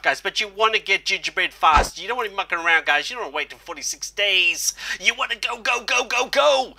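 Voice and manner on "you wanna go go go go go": rapid-fire chant, pitched up high; high-energy hurry-up cheer; excited urging. Real, not acted.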